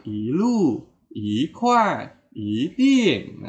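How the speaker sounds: "ilu, ikhwan, iting" with "i" rising; second-tone "i". Shown as a demonstration. Teacher showing the easier reading, "i" rising in second tone. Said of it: "kita bacanya nada kedua".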